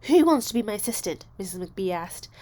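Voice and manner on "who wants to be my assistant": calling out. Acted. Teacher calling out to class.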